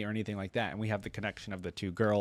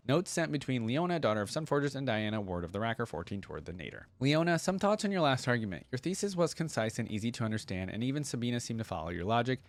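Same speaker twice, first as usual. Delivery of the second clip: lightly voiced thoughtful scholar, calm critique; Diana's note read; 3 semitones higher than usual. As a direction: read it like a patient, clever friend giving feedback.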